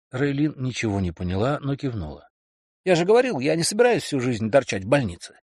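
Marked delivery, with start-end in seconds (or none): 2.8-5.4 higher, excited bragging man; boastful boyfriend. Acted. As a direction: sell the big dream loudly. Kelly insisting.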